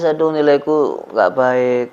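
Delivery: slow, drawn-out mock wail; mock lament. Playing a weeper upset about bad grades, mock lament. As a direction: bemoan it with hammed-up slowness. Plays the weeper's petty answer.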